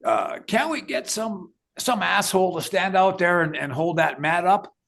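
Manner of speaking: a hint of an angry Torre asking for help; playful complaining manager voice; mad manager. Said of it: "Torre says".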